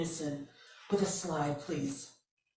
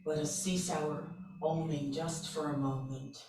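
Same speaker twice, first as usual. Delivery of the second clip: guided meditation; slower than usual. Acted. Leader to a group with eyes closed, meditative affirmation.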